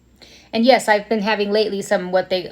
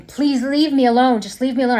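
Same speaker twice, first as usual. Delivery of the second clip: begging; 4 semitones higher, 3 dB louder than usual. Retold or imitated. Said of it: "And I'd beg him".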